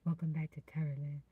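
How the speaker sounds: low, put-on deep welcome. Shown as a demonstration. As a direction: drop into a deep host voice. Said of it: "tilt my head down".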